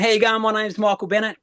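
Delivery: lifted, upbeat stage hello; assembly introduction. Retold or imitated. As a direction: re-enact hailing a big crowd of students. Re-enacts addressing a college gymnasium.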